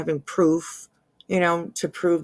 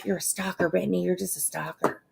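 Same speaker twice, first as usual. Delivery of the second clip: mock accusation; 7 dB quieter than usual. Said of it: "that was just a joke".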